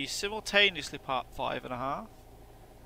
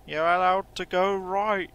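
mock impatient driver; 6 semitones higher, 4 dB louder, slower than usual. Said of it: "They're like".

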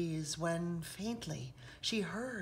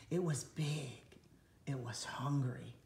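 low, ominous whisper; a dark hushed warning; menacing whisper; 5 semitones lower, 3 dB quieter than usual. A narrator's reading. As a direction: hush it to build dread. Ominous narration of predator.

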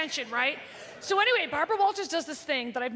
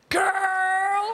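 loud, drawn-out sassy call; loud sassy girlfriend call; Star Jones exclaim; 3 semitones higher, 5 dB louder than usual. Retold or imitated. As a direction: belt the word like a diva. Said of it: "Star Jones goes".

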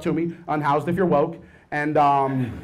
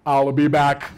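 Terminator voice; 4 semitones lower, slower than usual. Pretend. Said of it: "fleshlight was like".

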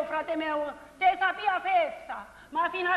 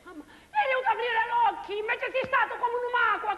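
laughing through tears; 3 semitones higher, 4 dB louder than usual. Acted. Clelia laments, laughing and crying.

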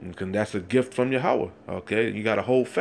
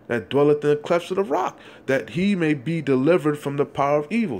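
fiery scripture reading; 2 semitones higher than usual. Acted. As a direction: preach the verse with mounting force. Street preacher reads scripture aloud.

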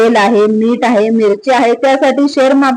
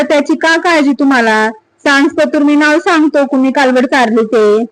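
a hint of a shrewd watchman, a little higher; the tracker explaining, somewhat higher and eager; lightly voiced village watchman; 4 semitones higher than usual. Watchman Namja shows Sata the calf tracks, lightly voiced and eager.

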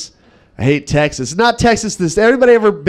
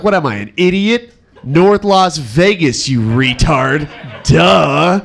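drawn-out, mocking know-it-all reply; put-on disdain, dragging the words out; mock scornful; slower than usual. Vegas local answering a silly question, mock scornful.

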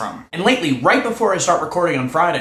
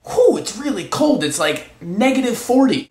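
slow, higher-pitched put-on complaint; acted casual remark; 6 semitones higher than usual. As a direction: draw it out as a staged exclamation. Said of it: "And then say".

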